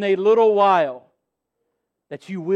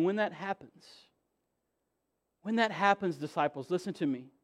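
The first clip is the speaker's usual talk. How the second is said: 1 dropped, confiding; 8 dB quieter than usual. Acted. Intimate aside to disciples.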